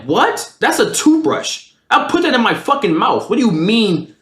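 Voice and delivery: high-pitched, incredulous protest; retelling his outrage at mom; indignant and drawn out, pitch leaping. Retold or imitated. Retold quarrel with his mother.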